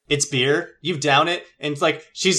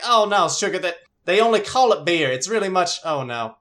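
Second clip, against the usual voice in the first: high, louder flustered hostess; worried Southern hostess; 5 semitones higher, 3 dB louder than usual. Acted. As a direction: fret over the drunk guest. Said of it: "She's like".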